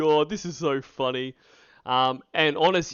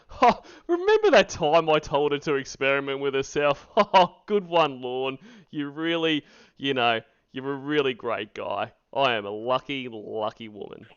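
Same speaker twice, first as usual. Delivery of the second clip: mock adoring wife; 4 dB louder than usual.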